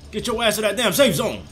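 mock military announcer nagging the player; Graves announcer impression. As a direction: bark the order like the Graves announcer. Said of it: "his, like, accent is extra instantiated".

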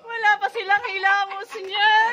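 laughing. Real, not acted. Laughing at unwashed hosts.

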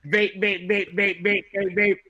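Jeff impression. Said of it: "here's my impression of Jeff".

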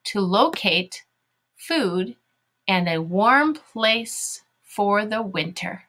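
slow, deliberate read-along; measured classroom reading; reading to children. Shown as a demonstration. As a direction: read word by word so pupils can follow.

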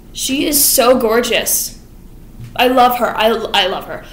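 swooning Anthony. Retold or imitated. Anthony smitten.

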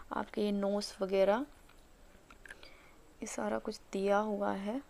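slightly muffled by hands; speaking through fingers; hands near mouth. Real, not acted. Seen 0: Pressing sheet mask around nose; fingers partly cover mouth area.

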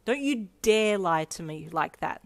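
mildly threatening warning. Acted. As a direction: warn without raising pitch. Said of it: "May threatened".

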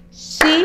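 "Xícara" split into three separate punched syllables, xí, ca, ra. Shown as a demonstration. Teacher clapping out syllables for pupils, "Xícara" broken syllable by syllable. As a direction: chop "Xícara" into beats with a pause after each syllable. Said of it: "Todas as vezes que eu pronuncio o som, eu bato palmas".

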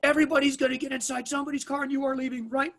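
commanding officer. Retold or imitated. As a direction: bark each word out slowly like a cop in charge. Police officer commanding everyone.

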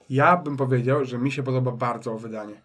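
sick, hoarse voice from a cold; talking through a cold, voice worn; feverish. Real, not acted. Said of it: "dlatego taki głos mam dzisiaj".

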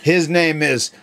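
growly pirate brogue; hammy sea captain, arr matey. Acted. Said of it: "you gotta talk like a pirate".

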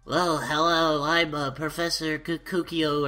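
hammed-up game character greeting; mild silly professor voice; funny professor voice. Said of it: "in a really funny voice".

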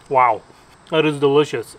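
loud delighted wow; excited. Real, not acted. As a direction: burst out with delight. First bite reaction.

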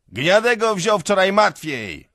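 high, loud, drawn-out yell; shouting. A narrator's reading. Peasant shouting down from his cart, yelling. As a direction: holler it down to the crowd. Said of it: "krzyczy z wozu".

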